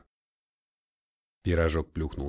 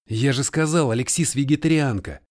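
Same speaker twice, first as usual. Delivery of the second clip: exasperated; 4 semitones higher, 6 dB louder than usual. A narrator's reading. Noah exasperated.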